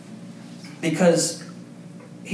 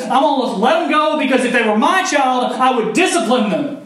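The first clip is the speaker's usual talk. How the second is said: God speaking; 6 semitones higher than usual. Retold or imitated. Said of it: "and he says".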